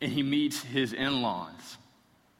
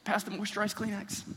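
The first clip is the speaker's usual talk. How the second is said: mock ugly cry; 7 semitones higher, 4 dB quieter than usual. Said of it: "It's this really ugly cry".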